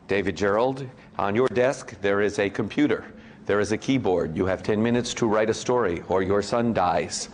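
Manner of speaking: a hint of the Saw killer's phone voice; Saw villain voice. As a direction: menace him down the phone like the Saw puppet. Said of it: "the voice from Saw".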